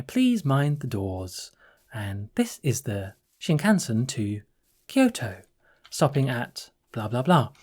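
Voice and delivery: slow, measured British announcement voice; British-accented train announcer. Retold or imitated. Traveller imitating Shinkansen announcements, slow British announcer accent. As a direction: imitate a British-sounding recorded announcer, taking it slowly. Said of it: "almost like a British voice".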